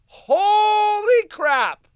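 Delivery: slow, drawn-out, high and loud disbelief; shocked that a video exists; stunned shout. Real, not acted. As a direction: blurt it out amazed. Finds the horse video.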